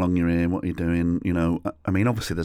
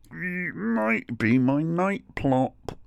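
high, drawn-out guilty squeak; comically coy, high-pitched admission; sheepish confession; 10 semitones higher, much slower than usual. Retold or imitated. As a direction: own up slowly in a tiny guilty voice.

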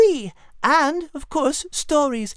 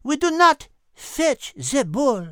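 haughty. Acted. Cat refuses haughtily.

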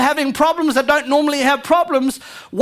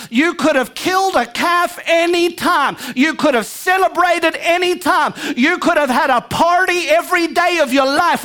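generous father; 4 semitones higher than usual. Retold or imitated. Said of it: "his attitude towards his son is".

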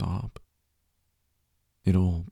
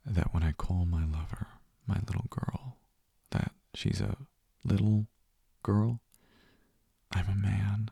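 whisper in your ear. Acted. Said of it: "I whisper in your ear".

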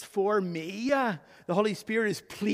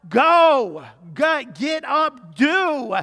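commanding go; 3 semitones higher, 8 dB louder, much slower than usual. Real, not acted. Preacher commanding the congregation.

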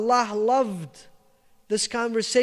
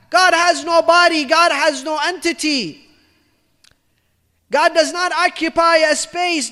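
stern rebuke; 3 semitones higher, 4 dB louder than usual. Acted. Musa scolding the shepherd.

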